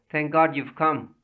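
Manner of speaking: slow sobbing relief. Acted. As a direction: drag it out, weeping with relief. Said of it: "she was sobbing".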